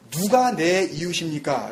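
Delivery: "누가 내 이웃입니까?" slowly, weight on "누가"; slow quoted question. Shown as a demonstration. Preacher slowly repeating the lawyer's question. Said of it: "라고 지금 질문을 했는데".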